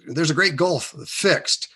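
slow, weighty King James phrasing; a hint of an old preacher reading; solemn scripture quote. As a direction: intone it like scripture. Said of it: "This is King James Bible".

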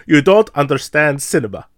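bad German accent, barely there; a weak fake German accent; terrible German accent. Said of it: "That was a very terrible German accent".

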